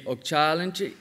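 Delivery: okchalinchi with the weight on CHA, falling at the end; first stress pattern. Shown as a demonstration. Lecturer showing a word's stress variants, stress on CHA. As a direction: say okchalinchi leaning on the long CHA. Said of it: "words have different stress patterns".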